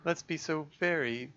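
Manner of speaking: lightly voiced sly tempter; coaxing sinister voice. Dark voice tempting the girl, sly coaxing. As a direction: coax her toward a cruel deed.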